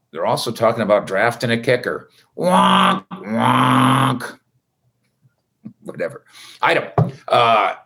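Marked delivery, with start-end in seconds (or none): 2.4-4.4 sad trombone. Pretend. Mocking sad trombone noise.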